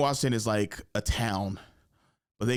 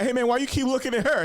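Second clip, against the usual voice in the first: high, raised, quick challenge; mock confrontation; 10 semitones higher, 4 dB louder, faster than usual. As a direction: call him out in a pitched-up voice. Comic retelling of confronting audience member.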